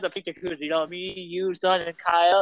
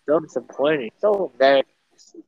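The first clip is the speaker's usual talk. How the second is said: British voice; 5 semitones lower than usual. Pretend. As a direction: lower put-on British disdain. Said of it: "You can do your British voice".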